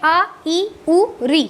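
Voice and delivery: each vowel clipped short, quick. Shown as a demonstration. Teacher to class, demonstrating short vowels, quick and clipped. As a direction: say the vowels briefly, one beat each. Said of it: "हर स्वर में बहुत कम समय".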